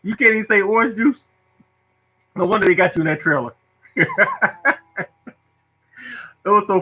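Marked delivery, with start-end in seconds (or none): 0.0-1.3 mock scolding lunch lady. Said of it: "That's the way the lunchroom lady used to be looking at me".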